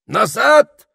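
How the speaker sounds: high, loud threatening cry; wizard exclaiming. A narrator's reading. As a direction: bluster a threat at the top of the voice. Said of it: "воскликнул волшебник".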